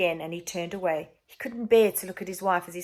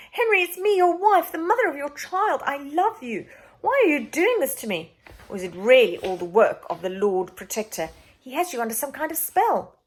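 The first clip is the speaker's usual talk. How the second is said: high, loud anguished wife; desperate pleading; 8 semitones higher, 6 dB louder than usual. A narrator's reading. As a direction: plead as she's dragged off. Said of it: "screamed the queen".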